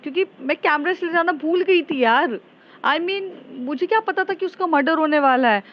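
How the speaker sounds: lightly voiced agitated girl explaining; anxious explaining. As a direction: rush to justify herself, a bit rattled. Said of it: "Jessica बोलती है".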